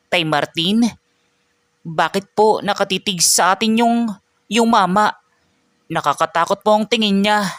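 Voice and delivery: put-on high, timid child's voice; scared little boy. Child asking Tay Martin about the staring man, timid.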